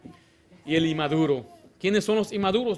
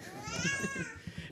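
high laugh; 10 dB quieter than usual. Real, not acted. Preacher laughs at the story.

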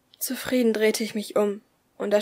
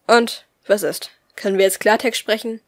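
impatient; 5 dB louder than usual. Acted. Captor pressing impatiently.

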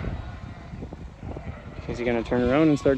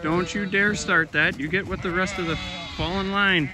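scolding a sheep; 4 semitones higher than usual. Real, not acted. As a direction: warn the stray sheep back into line.

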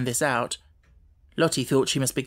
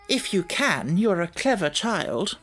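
tight, clipped condescension; sharp and curt; 4 semitones higher than usual. A narrator's reading. Headmistress grudgingly allowing Sarah to try, tart. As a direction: bite off the words. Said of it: "drawing in her mouth sharply".

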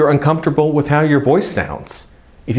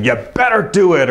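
mock tough-love order, a bit higher; tough-love scolding; 4 semitones higher than usual. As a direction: lay down the law in a mock lecture. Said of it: "tough love approach saying".

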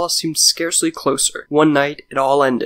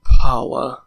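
Paula groaned out loud; 8 dB louder than usual. A narrator's reading. Facing the shadowy monster, groaning its name loudly. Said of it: "I groaned".

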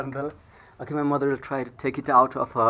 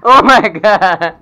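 drawn out slowly and louder; real shock as the fight flares; stunned oh my God; 3 semitones higher, 11 dB louder, much slower than usual. Real, not acted. Owner reacting live as her dog lunges, slow loud gasp of disbelief.

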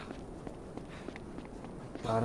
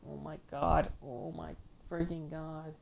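muttered exasperation; 9 dB quieter than usual. Real, not acted. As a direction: sigh it out under your breath. Exasperated under breath.

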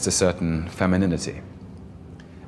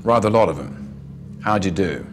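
Belgravia slur. Acted. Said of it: "Belgravia slur".

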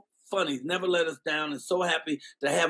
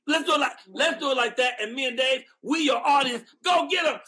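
higher, rising hype call; host cheering the comedian on, raised and eager; 6 semitones higher than usual. Real, not acted. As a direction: fire up the comedian. Hyping the comedian onstage.

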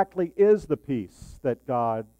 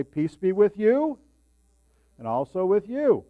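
liturgical greeting; 4 semitones higher, 4 dB louder than usual. Retold or imitated. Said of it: "they'll say".

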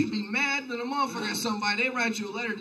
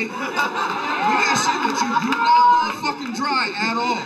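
emphatic rant; 5 semitones higher, 7 dB louder, slower than usual. Acted. Comic insisting, building emphasis.

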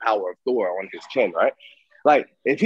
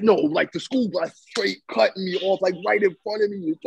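higher, mildly aggrieved complaint; indignant retelling; 5 semitones higher than usual. Retold or imitated. Host quoting friend about the school bus, higher indignant complaint. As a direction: act out a friend griping about being cut off. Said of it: "you was like".

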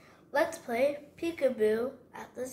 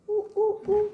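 much higher, louder ooh ooh; monkey hoots; 8 semitones higher, 6 dB louder, faster than usual. Acted. Child recites the animals again, monkey hoots. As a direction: hoot like a chimp.

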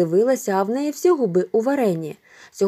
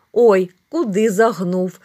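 laughing; 6 dB louder, slower than usual. A narrator's reading. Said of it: "засміявся Мишко".

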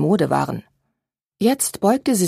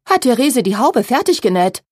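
alarmed; 5 semitones higher, 4 dB louder than usual. A narrator's reading. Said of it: "rief Charlotte erschrocken".

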